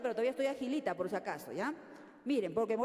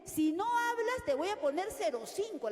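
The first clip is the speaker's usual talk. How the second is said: mock threat; 5 semitones higher, 4 dB louder than usual. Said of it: "la amenaza". (amenaza de docente severa, lenta y marcada)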